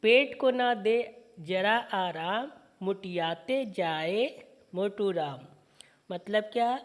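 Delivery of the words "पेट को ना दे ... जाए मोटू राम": slow, sing-song poem reading; poem recitation. Acted. Teacher reciting a children's poem slowly to students. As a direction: recite each line slowly for the class.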